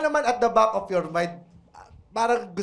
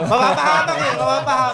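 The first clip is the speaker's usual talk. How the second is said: louder, higher laughing warning; 3 semitones higher, 6 dB louder than usual. Real, not acted. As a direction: laugh it out loud. Group shouting and laughing.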